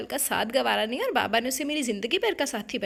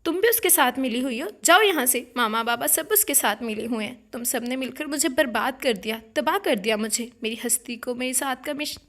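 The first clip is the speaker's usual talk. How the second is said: louder, furious narrated outburst, peaking on جاؤ; angry outburst; 4 dB louder than usual. Acted. Betrayed bride ordering her sister out, loud angry outburst. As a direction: throw her sister out of the room.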